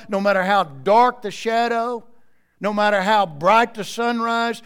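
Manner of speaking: full-voiced preaching build; preaching at full force. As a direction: preach it, rising with each line. Preaching crescendo on no matter how.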